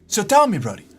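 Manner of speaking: high, loud villain shout; villain rant. Retold or imitated. Streamer to a viewer named Brody, loud mock villain rant. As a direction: spit it like an unhinged villain. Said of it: "have I ever told you the definition".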